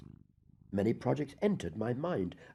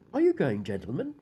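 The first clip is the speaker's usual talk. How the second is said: nervous outburst; 5 dB louder than usual. Acted. Murderer bluffing police nervously.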